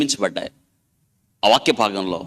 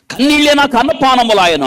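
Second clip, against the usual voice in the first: much higher, loud lamenting cry; psalmist's lament; 12 semitones higher, 7 dB louder than usual. Retold or imitated. Preacher voices the psalmist's lament of tears, loud and high. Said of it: "అంటున్నాడు".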